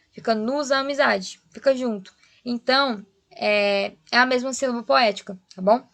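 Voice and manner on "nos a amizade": "nos a amizade" as "no-za-mizade"; linked syllables. Shown as a demonstration. Teacher showing the joined syllable, linked words. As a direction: join "nos" onto "a amizade" in one flow. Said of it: "junto com o a".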